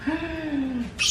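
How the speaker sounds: long, soft intake of breath; drawn-out theatrical gasp; dramatic gasp. Acted. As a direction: gasp in mock shock. Dramatic reaction.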